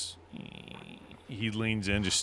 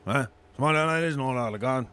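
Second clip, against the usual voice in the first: put-on town drunk. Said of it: "drunkard voice to normal Mike".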